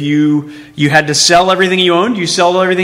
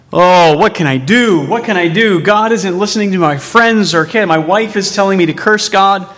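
mildly acted anguished lament, pitched up; grief; 4 semitones higher than usual. Preacher voicing Job's appeal in despair, grieving. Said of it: "he's saying it in grief".

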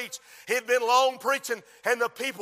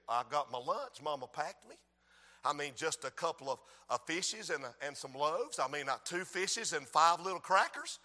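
put-on soft, lower, shy boy voice; little boy; 7 semitones lower, 10 dB quieter than usual. Little boy telling the disciples about his lunch, shyly. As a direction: play the small boy offering his lunch.

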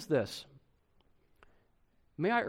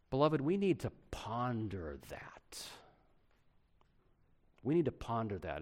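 whisper; 3 semitones lower, 4 dB quieter than usual. Real, not acted. Preacher whispers to congregation.

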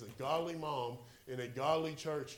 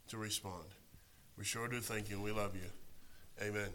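opening prayer; 4 semitones lower than usual. Acted. Pastor praying over the church before preaching, earnest and hushed. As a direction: pray over the congregation, ending hushed.

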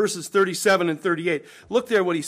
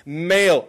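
Male set apart and punched louder; stress on Male; 5 dB louder than usual. Real, not acted. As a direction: hit the single word Male firmly. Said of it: "can I say it again?".

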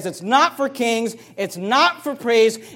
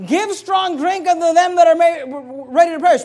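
sarcastic mother; 9 semitones higher, 7 dB louder than usual. Retold or imitated. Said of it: "She says".

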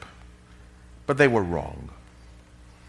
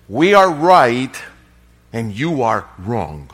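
dogmatic; 2 semitones lower, 6 dB louder than usual. Retold or imitated. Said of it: "his answer was dogmatic".

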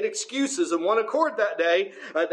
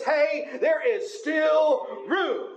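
joyful emphasis; 5 semitones higher, much slower than usual. Acted. Preacher savoring good news.

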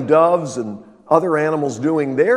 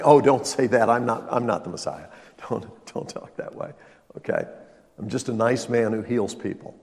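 mock timid Jesus; 3 semitones lower than usual. Mock Jesus denying messiahship.

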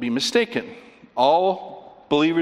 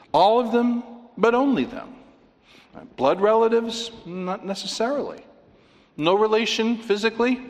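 excited; 10 semitones higher than usual. Real, not acted. Rhetorical questions, rising emphasis.

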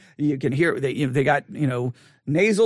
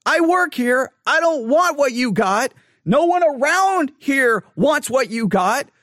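firm; 6 semitones higher, slower than usual. Retold or imitated. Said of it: "we were like".

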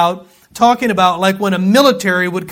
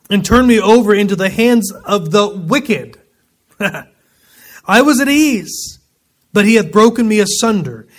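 louder, earnest scripture reading; 3 dB louder than usual. Acted. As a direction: read Job's complaint with force. Reads scripture aloud.

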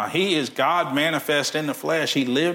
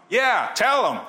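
cheering; 9 semitones higher, 3 dB louder, slower than usual. Retold or imitated. Cheering on the pastor.

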